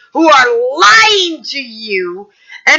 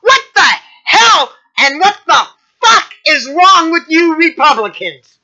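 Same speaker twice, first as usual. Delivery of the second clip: pissed off. Real, not acted. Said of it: "really pissed".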